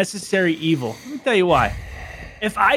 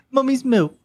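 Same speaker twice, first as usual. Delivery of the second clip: put-on British accent, higher pitched; 6 semitones higher than usual. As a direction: copy the creepy British version. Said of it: "you say it in a British accent".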